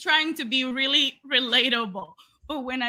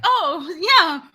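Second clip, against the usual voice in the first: front desk lady; 3 semitones higher than usual. Retold or imitated. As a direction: gush it like an eager clerk. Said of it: "She's like".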